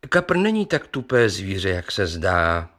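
plain reading voice

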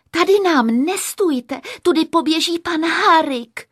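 high, loud scolding; displeased assistant. A narrator's reading. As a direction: shoo him out of the way. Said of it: "to se zase nelíbilo asistence". (nespokojené vysoké napomenutí)

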